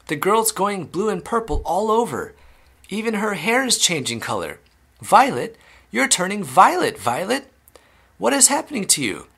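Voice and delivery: sustained high-pitched alarm; panicked yell. A narrator's reading. Mother watching her daughter turn violet, panicked yelling. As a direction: exclaim high, aghast at each change. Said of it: "yelled Missus Beauregard".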